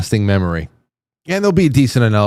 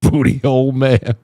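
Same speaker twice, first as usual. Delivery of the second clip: giggling out the phrase between laughs; breathy laughter as you repeat it; laughing through it. Real, not acted. Host repeats the clip's phrase while cracking up, laughing.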